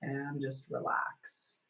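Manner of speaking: slow soothing whisper. Real, not acted. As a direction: breathe it out in a hush. Guiding relaxation exercise.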